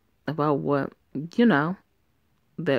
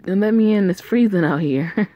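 louder, higher call through the door; raised voice from outside; 4 semitones higher, 5 dB louder than usual. Acted. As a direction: shout to be let in from the cold. Calling from outside in cold.

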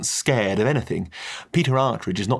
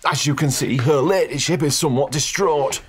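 butler voice, higher and louder, held steady; controlled butler; 5 semitones higher, 4 dB louder than usual. Acted. Butler apologising to the guest over a distraught lady. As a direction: keep the tone controlled despite the chaos. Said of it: "said Butler, managing to keep his tone admirably controlled".

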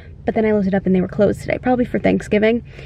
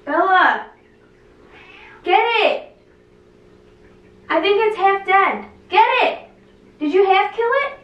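frantic urging; 9 semitones higher than usual. Real, not acted. Cricket on carpet, urging dog.

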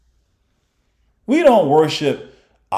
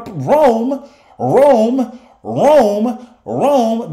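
mock alarm; 6 semitones higher, 5 dB louder, much slower than usual. Mocking leaders' panic about Rome.

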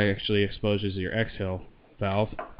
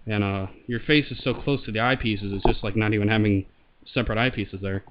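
muffled voice behind a mask; talking through a respirator; through a gas mask; 4 dB louder than usual. Real, not acted. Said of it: "I'll throw it on here and show it, and I'll talk into the mic".

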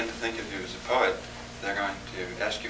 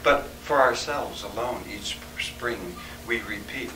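poetry reading; 2 semitones lower than usual. Acted. Poet reading a wilderness reverie aloud, softening measured verse. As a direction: recite it gently, hushing as the storm dies away. Reads narrative poem aloud.

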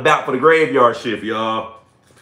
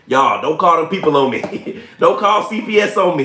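laughing; 4 semitones higher, 5 dB louder than usual. Real, not acted. Laughing joke to viewers.

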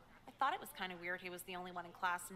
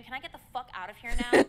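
fed-up outburst; 2 semitones higher, 14 dB louder, faster than usual. Acted. Student snaps at student teacher.

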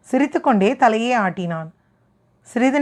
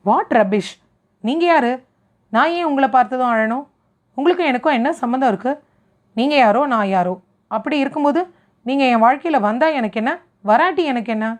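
heated, defensive retort; angry outburst. Acted. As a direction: snap back at him in irritation. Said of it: "இதுக்கு ஏங்க இவ்ளோ கோவப்படுறீங்க?".

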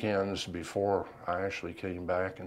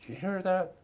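higher-pitched re-enacted question; urgent question; 12 semitones higher than usual. Veteran asking wife about a noise at night, urgent question. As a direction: ask it as if just woken and listening hard. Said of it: "look at her and say".

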